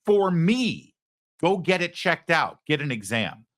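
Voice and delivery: high, pleading plea to get checked; pleading loved one. Retold or imitated. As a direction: beg gently, just for me.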